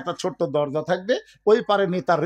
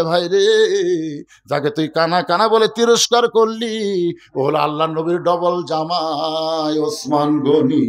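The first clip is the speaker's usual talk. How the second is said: drawn-out, mournful chanting lament; tearful reproach; 5 semitones lower than usual. Acted. Companion revealing whom the shepherd insulted, mildly tearful. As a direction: let the last words wail out slowly. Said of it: "কান্দে আর বলে".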